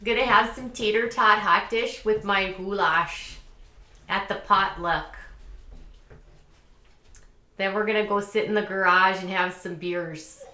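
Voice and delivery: hammed-up Midwest talk with long round vowels; exaggerated Midwestern accent. Vlogger joking about potluck food, exaggerated Midwestern accent. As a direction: lay the Midwestern accent on thick. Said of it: "I'm just exaggerating".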